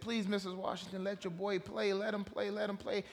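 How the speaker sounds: lightly acted, insistent pleading; imitated begging. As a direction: plead like a coach begging a mother. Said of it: "the coach begged and said".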